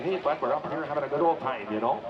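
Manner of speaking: put-on light Upper Midwest accent, friendly; a hint of a Minnesota-ish accent. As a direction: imitate a chatty Minnesota-ish local. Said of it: "That's Minnesota-ish".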